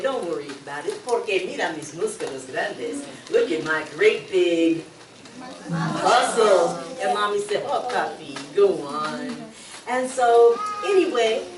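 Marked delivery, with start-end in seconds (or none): 0.0-6.8 boastful dad. Acted. Papi boasting about his muscles. 7.7-9.4 teasing mom. Acted. Mommy teasing Papi.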